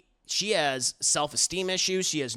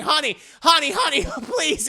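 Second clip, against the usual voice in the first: mock soothing; 11 semitones higher, 7 dB louder than usual. Comforting with a laugh.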